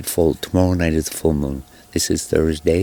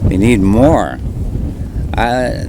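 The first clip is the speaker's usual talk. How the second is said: shouting over wind; 3 semitones higher, 6 dB louder, slower than usual. Real, not acted. Filming fire bombers in wind.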